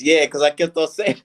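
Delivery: laughing through the words; chuckling as he tells it. Real, not acted. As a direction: breaks into laughter mid-line. Laughing at own story.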